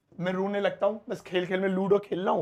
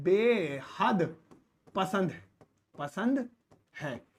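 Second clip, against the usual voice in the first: slow stretched word; 3 dB quieter, much slower than usual. Shown as a demonstration. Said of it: "teacher stretches word for learners".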